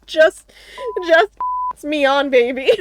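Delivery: playful flirting; flirty voice. Retold or imitated. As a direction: tease it like a sweet-talker. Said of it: "they're just like".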